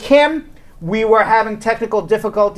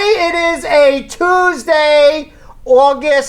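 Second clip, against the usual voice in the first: slow; 5 semitones higher, much slower than usual. Real, not acted. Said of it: "I said it very slow".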